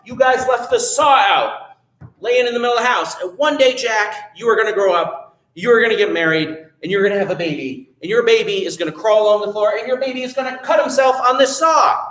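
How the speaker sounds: a hint of a worried mom near tears; upset mother. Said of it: "And she said".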